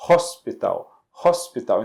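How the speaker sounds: "hospital" with an audible breathed H at the start; pronounced H in "hospital". Shown as a demonstration. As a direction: sound the H that opens "hospital". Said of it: "esse H é pronunciado".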